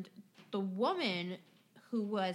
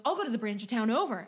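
louder, fast indignant customer rant; mock angry rant; 5 dB louder, faster than usual. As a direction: rattle off the grievance like an entitled customer. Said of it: "he goes".

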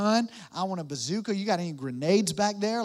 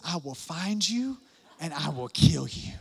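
Liam Neeson; 3 semitones lower than usual. Retold or imitated. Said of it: "I'll be like Liam Neeson".

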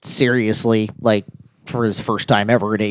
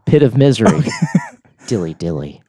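plain voice, through real laughter; laughing repeat; 3 semitones lower than usual. Real, not acted. Host cracking himself up repeating the joke, laughing. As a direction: chuckle it out as you repeat it.

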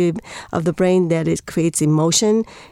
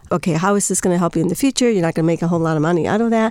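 practical mom; much faster than usual. Retold or imitated. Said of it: "She was more being, like, practical".

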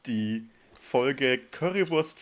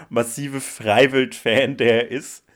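loud punchline; 7 dB louder than usual. Real, not acted.

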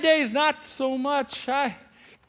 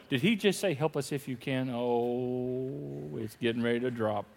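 shocked aside; 10 semitones lower, 8 dB quieter than usual. Retold or imitated. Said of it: "standing there going".

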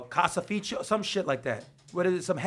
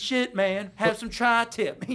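slow, lazy Southern buddy drawl with a laugh; laid-back hillbilly offer, slowed down; imitating Justin; 3 semitones higher, slower than usual. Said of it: "That's how he talks".

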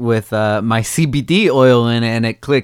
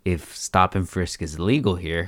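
low, softer inner thought; 4 semitones lower, 6 dB quieter than usual. Retold or imitated. Warning himself in his head, low and soft. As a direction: talk to yourself under your breath. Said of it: "in my head".

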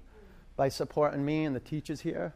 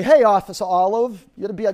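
pretend confronting; 8 semitones higher, 13 dB louder than usual. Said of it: "I wanna say".

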